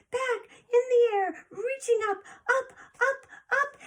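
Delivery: high, loud, straining upward; urgent reaching. Acted. Fifth sister reaching to catch the falling baby, high and loud. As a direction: call it out as you stretch up high.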